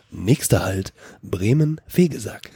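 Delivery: slow, formal station announcer; train announcement. Retold or imitated. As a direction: announce the next stop like a train speaker. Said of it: "die Zug-, äh, Durchsage nachgemacht".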